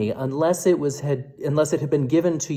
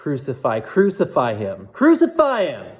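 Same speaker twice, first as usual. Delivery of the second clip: crowd shouting. Acted. Chief priests demand crucifixion, rising shout. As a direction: let the chant swell into a shout. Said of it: "they shouted".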